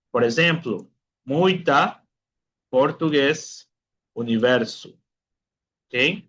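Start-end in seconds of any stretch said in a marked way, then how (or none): 1.2-4.9 muita, portugués, universo with U as in Spanish. Shown as a demonstration. Teacher giving examples of the vowel U, Spanish-like U in muita, portugués, universo. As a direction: model muita, portugués, universo one at a time, with a pure U. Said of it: "el sonido es igual que en español".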